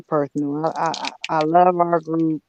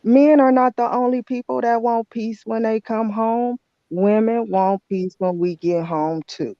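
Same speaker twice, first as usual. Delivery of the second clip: annoyed retort; 5 semitones higher than usual. Real, not acted. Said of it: "I'm really annoyed".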